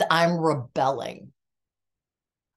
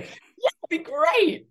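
much higher, slow sarcastic reply; mock cheerful; 13 semitones higher, slower than usual. Daughter mocking her stunned answer, much higher sarcastic. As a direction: sing it out sarcastically. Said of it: "Which is, like, such a stupid thing".

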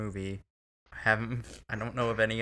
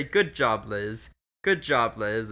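cheering her on loudly, mock praise; pep-talk a doomed friend, half joking; 4 dB louder, slower than usual. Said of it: "I say".

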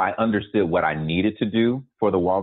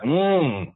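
a high, pleased hum of food, a touch higher; mock yummy hum; 8 semitones higher than usual. Shown as a demonstration. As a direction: hum like a bite of good food, lightly. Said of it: "I wanna be like".

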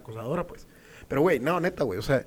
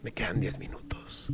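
low breathy whisper, imitating her; whispered come-on; 6 semitones lower, 13 dB quieter than usual. Drunk girl to him in the bathroom, whispered. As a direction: whisper it as her secret offer.

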